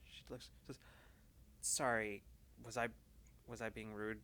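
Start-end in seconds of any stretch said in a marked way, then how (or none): 1.6-4.2 softer, flustered apology; quiet apology. Acted. Alma apologizes to Bina, quietly flustered. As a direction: murmur the apology, caught off guard.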